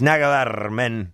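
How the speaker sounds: "Nada que ver" lento, como "nacabarrr", más "men"; estirá "Nada que ver" y rematá con men; pronunciación parda con men. Shown as a demonstration. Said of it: "Men se dice always". ("Nada que ver, men" arrastrado)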